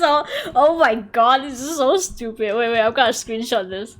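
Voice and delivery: ordinary delivery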